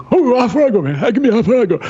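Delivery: a hammed-up drunk Scottish bellow at the bar; drunk Scottish yell. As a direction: mimic a drunk Scotsman shouting for half a go. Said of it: "He was screaming".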